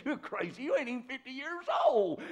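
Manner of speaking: high, loud, fast jeering; loud sneering mockers; mocking crowd. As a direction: scoff at him like a scornful crowd. Mocking Jews voiced in sermon.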